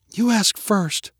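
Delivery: high, slow, lightly voiced child; little-girl voice. A narrator's reading. Sister telling brother to wish first, high and slow. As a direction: say it slowly in a high girlish voice.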